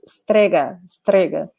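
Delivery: "strega" repeated with Italian stress on the first syllable; Italian word strega. Shown as a demonstration. Teacher repeats "strega" for the class. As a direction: model strega again clearly. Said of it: "something like this".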